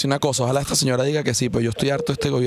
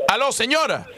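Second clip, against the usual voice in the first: laughing; 8 semitones higher than usual. Real, not acted. Caller cracks up mid-prank.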